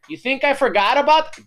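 loud, high mock scolding; imitated angry mom. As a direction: pounce on the kid who thought he escaped. Mom's threat at home, retold.

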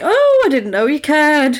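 hammed-up tipsy guy, high and loud; sozzled party guy. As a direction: play a mock drunk, blurting it out merrily. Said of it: "this guy's clearly sozzled".

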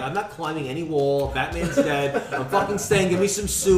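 high, laughing, stubborn refusal; laughing mock defiance. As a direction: laugh through a mock protest. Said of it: "I'm like".

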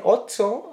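"Otso" said with a ts sound; regional pronunciation. Retold or imitated. Man reports a local word to cohost, "Otso" with ts. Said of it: "me dijeron que le dicen".

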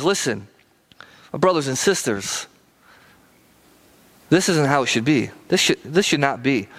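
low, earnest appeal with pauses; getting real. Acted. James leans in to his brothers and sisters, getting real. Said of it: "he kinda gets real".

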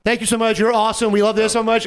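high, excited imitation; gushing thanks. Retells couple's thanks from car.

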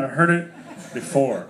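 slow, laughing through the words; laughing mock protest. Speaker repeating the bored listener's line, slowly laughing. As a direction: drag it out while chuckling. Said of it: "Other people are like".

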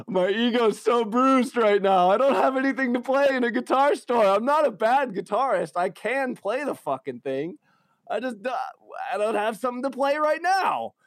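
high, loud whiny wail. Retold or imitated. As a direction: wail it like a bruised ego. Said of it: "I'm like".

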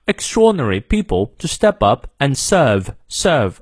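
"serve" with no R, British style; British silent R. Shown as a demonstration. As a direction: drop the R in "serve". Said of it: "不念". (英式"serve"，R不发音)

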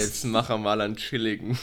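playful go at Bavarian; imitated Bavarian dialect. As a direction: copy a friend's Bavarian dialect. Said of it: "Ich kann's nicht mal nachmachen".

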